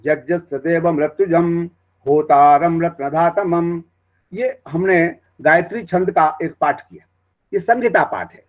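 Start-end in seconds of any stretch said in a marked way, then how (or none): 0.1-3.8 slow chanted Vedic recitation; measured samhita chant. Shown as a demonstration. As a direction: intone the mantra steadily, slowing at the end. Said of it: "जैसे हम बोलते हैं".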